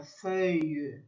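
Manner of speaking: feuille with open eu and long i end; French feuille. Shown as a demonstration. Teacher drilling feuille, French vowels. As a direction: say feuille, glide into the i. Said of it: "esse I comprido".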